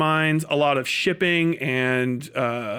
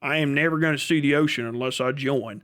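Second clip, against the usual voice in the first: desert hick voice; 2 semitones lower than usual. Retold or imitated. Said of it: "they love joining the fucking Marines".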